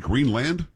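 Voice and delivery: Greenland with a clear "land"; Greenland, second syllable rhyming with hand; full LAND ending. Shown as a demonstration. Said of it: "I'm going Greenland".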